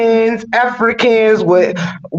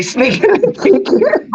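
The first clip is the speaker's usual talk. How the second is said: Obama voice; 11 semitones higher than usual. Retold or imitated. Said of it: "I would love to hear his voice say".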